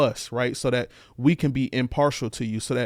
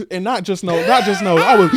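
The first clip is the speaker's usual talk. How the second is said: emotional outburst; 9 semitones higher, 10 dB louder than usual. Real, not acted. Telling of crying breakdown.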